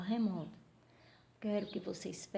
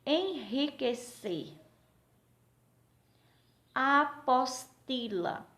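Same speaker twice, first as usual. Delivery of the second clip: slow, raised-pitch syllable dictation; 4 semitones higher, slower than usual. Shown as a demonstration. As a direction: spell out each word beat by beat. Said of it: "Quatro sílabas ou mais".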